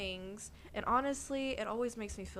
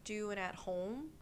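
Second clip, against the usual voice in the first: gentle reframing; 3 dB quieter than usual. Acted. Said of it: "what if I reframe that".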